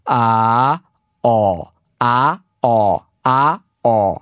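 alternating open and rounded "ah"; saying ahh. Shown as a demonstration. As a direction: switch back and forth between the "ah" sounds. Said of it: "going back and forth".

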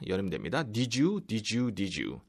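normal talking voice

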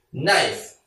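나이프 with the initial K left silent. Shown as a demonstration. Teacher showing learners the word knife, 나이프 with silent K. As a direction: say 나이프 starting straight on the N. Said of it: "이 K는 발음이 안 돼요".

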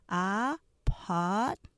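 아파트먼트 said as three syllables, a-part-ment; three-syllable apartment. Shown as a demonstration. Teacher demonstrating 아파트먼트 syllable by syllable. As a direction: squeeze 아파트먼트 into three beats. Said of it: "실제로는 삼음절이에요".

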